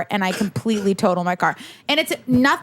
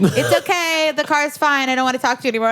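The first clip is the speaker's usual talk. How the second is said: imitated placating driver; 4 semitones higher than usual. Driver soothing crying teen, brushing off.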